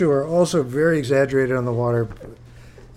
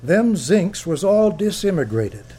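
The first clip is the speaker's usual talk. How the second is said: higher, slow, louder Maine fisherman; Henry's voice; 7 semitones higher, 5 dB louder, slower than usual. Retold or imitated. Henry holding court in the boat, slow and high. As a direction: drawl it out like an old lobsterman. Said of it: "Henry says".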